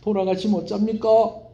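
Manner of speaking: hammed-up tearful plea; weeping lament. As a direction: cry it out over the dying prophet. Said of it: "울면서".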